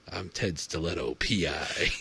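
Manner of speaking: noir detective. Pretend. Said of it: "sounds like an old-timey detective".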